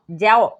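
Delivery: "जाओ" said with a separate a-o glide; wrong reading. Shown as a demonstration. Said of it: "नहीं, ये हो जाएगा गलत".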